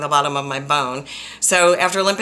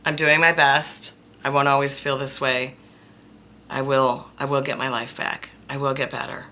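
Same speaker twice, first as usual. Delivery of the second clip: supportive voice. Retold or imitated. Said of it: "I would introduce a supportive voice".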